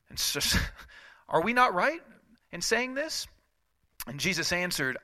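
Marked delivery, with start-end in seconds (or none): 1.3-3.3 even higher sneering repeat; mock sarcastic. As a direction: mimic them with a mocking lilt. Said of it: "it's so sarcastic".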